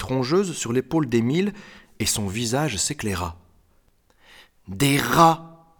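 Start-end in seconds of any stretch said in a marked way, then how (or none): 4.7-5.8 louder, higher cry of discovery; pleased outburst, pitched up; delighted exclamation. Acted. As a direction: exclaim it with glee. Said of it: "s'exclama-t-il".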